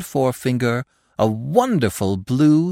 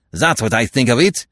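louder furious answer; furious retort; 5 dB louder than usual. Acted. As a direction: fling it at him in rage. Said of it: "beside himself with rage".

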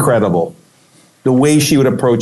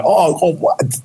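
amazed gasp; 6 semitones higher, slower than usual. Retold or imitated. Sudden amazement at the festival.

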